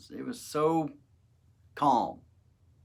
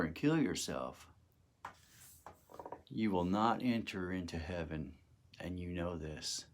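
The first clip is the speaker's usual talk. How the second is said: calm; 4 semitones lower than usual. Retold or imitated. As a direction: soothe him, gently and firmly. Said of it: "he just calmly says to me".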